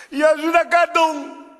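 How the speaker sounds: high, loud reply from the pit; drunk man answering. Acted.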